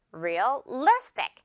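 Realistic with a strong "li" in the middle; stress on the second syllable. Shown as a demonstration. Teacher modelling the word for learners, Realistic stressed on "li". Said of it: "리 부분을 강하게 발음해주면".

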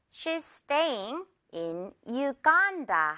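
very slow, "Uganda" as yoo-GAAN-da; slow model sentence. Shown as a demonstration. Teacher gives an example to repeat, slow model with "Uganda" as yoo-GAAN-da. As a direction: space each word, stretch "staying" and "Uganda". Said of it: "한 번 더".

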